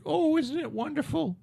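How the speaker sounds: high mock-gushing voice, dripping sarcasm; sarcastic gushing. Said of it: "everybody's like".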